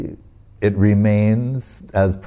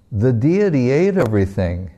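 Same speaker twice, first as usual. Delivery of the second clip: lightly voiced child, pitch swooping up midway; a boy's guileless announcement; innocent report; 2 semitones higher than usual. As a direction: state it brightly as simple fact, amused underneath. Boy innocently reports to father.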